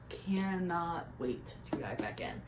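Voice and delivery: slow, hushed whisper of cannot wait; whispered longing. Real, not acted. Vlogger to viewers, longing to reread, whispered. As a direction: breathe the words out slowly, aching to go back. Gushing about rereading a favourite.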